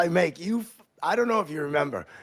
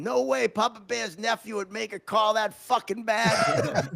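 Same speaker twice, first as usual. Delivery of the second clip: retold scream; 3 semitones higher than usual. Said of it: "I hear you scream".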